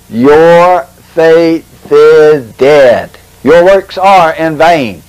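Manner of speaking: slow, drawn-out divine pronouncement; God's voice imitated. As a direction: pronounce judgment slowly, lightly voiced as God. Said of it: "He spoke to me in a thunderous voice".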